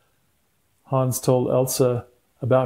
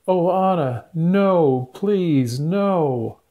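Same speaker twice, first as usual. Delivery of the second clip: grieving plea; 4 semitones higher, 4 dB louder, much slower than usual. Acted. Elsa grieves frozen sister.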